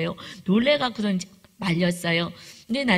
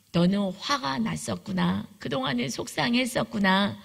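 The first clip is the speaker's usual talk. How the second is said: 1 gentle empathy. Retold or imitated. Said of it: "라고 얘기했더니".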